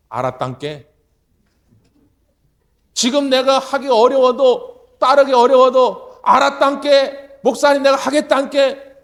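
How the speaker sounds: slow loud heartfelt vow in Jeolla dialect; earnest loud vow. Retold or imitated. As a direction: swear it out slowly with full force. Grandfather's earnest confession of obedience.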